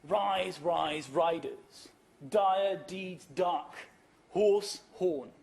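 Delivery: slow, each alliterating word hit hard; alliteration stressed. Shown as a demonstration. Lecturer showing the alliteration, slow with every stressed word hit. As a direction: punch Rise, riders, Dire, deeds, dark, Horse, horn. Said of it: "This is, uh, Anglo-Saxon Old English poetry".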